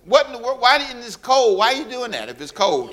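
high, incredulous what in the world; playful shocked outcry; mock disbelief. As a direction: act stunned at the outfit. Mock shock at bare outfits.

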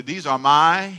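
"These are my" with weight on "my"; say it meaningfully. Shown as a demonstration. Pastor leading congregation's response, firm "my". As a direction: lean firmly on "my" and hold it. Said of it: "say it like you mean it".

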